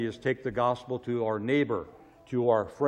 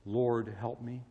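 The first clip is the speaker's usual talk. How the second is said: much softer, hushed plea; quiet prayer; 4 semitones lower, 10 dB quieter than usual. Retold or imitated. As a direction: breathe the prayer gently.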